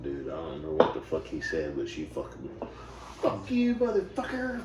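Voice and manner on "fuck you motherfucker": loud, high mock yell of a furious woman; yelled insult. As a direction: shout it like you're ready to fight. Angie retold cursing at a dude.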